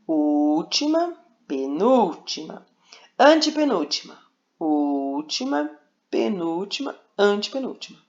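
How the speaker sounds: slow, deliberate listing for the class; slow teaching recital. Shown as a demonstration. Teacher drilling stress positions for the class, slowly. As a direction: spell out "Última", "penúltima", "antepenúltima" slowly, one by one. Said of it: "Então, aqui, ó".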